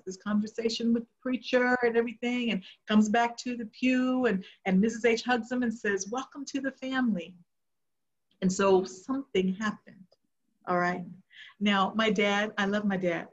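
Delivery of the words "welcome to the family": softer, higher welcoming voice; tender, lifted greeting; warm welcome. Retold or imitated. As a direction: gently imitate a churchwoman's welcome. Churchwoman hugging and welcoming dad.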